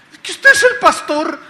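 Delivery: loud, high mock wail; imitated tearful protest. Woman objects that he is the pastor, loud tearful protest. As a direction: wail it out as the upset guest. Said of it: "la señora llorando dice".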